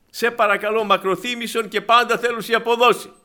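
high, loud pleading; begging servant. Retold or imitated. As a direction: beg the master for mercy. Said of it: "Λέει". (ικετευτική, δυνατή παράκληση)

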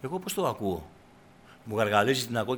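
ordinary talk, nothing marked

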